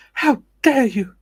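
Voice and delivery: slow, high, loud mock outrage; hammed-up indignant impression, each word stretched; Greta. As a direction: scold them in a high, drawn-out put-on voice. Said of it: "did you just go full Greta".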